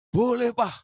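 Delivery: high, loud cheerful yes; eager child. Retold or imitated. Youngest child happily letting papa have the chocolate. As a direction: answer like a happy little kid.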